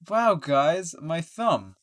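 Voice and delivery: loud, high staged wow; mock amazement. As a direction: gasp at the fake thumb trick. Thumb trick shown to viewers.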